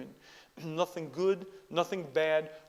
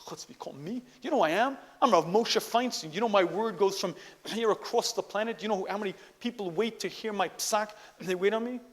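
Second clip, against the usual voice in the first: higher, louder, indignant self-important rabbi; arrogant big shot; 4 semitones higher, 4 dB louder than usual. Pretend. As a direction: puff up like a great man insulted by being summoned. Imagined arrogant rabbi reply.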